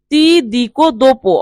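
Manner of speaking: very slow, careful Italian; deliberate teacher's dictation pace; slow model phrase. Shown as a demonstration. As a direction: spell each syllable out for learners. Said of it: "teacher models Italian phrase slowly".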